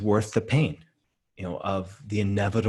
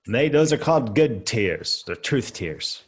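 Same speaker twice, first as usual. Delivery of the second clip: rough mock Australian accent, louder; Australian accent attempt; 2 semitones higher, 5 dB louder than usual. Imitating burly friend from Dubai, attempted Australian accent. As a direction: have a shaky go at burly Australian. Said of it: "can't do an Australian accent".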